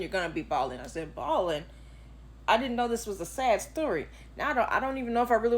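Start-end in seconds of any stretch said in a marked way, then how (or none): 1.1-4.1 incredulous one-word question; surprised echo. Retold or imitated. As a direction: repeat "Bawling?" as a shocked echo. Echoes coworker's word in disbelief.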